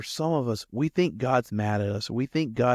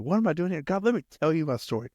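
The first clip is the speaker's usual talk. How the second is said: indignant comeback; 5 semitones higher, much faster than usual. Acted. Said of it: "this is how I would respond".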